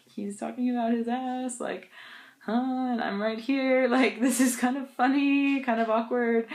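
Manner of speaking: eating lunch, amused by the dad's complaint; amused aside. Retold or imitated. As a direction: hold back a chuckle. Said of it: "chuckling under my breath".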